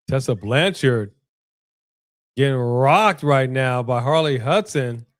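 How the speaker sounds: slow broadcast commentary; play-by-play. Acted. Watching wrestling, calling the match like a commentator. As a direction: call the action like a ring announcer.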